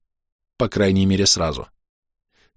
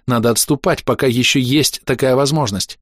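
pleading; 4 semitones higher than usual. Acted. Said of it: "Биара сорвалась".

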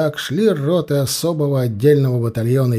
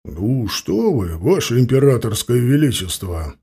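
relieved; 2 semitones lower than usual. A narrator's reading. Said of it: "со вздохом облегчения ответил Потёмкин".

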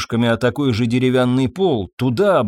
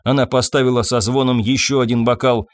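plain reading voice

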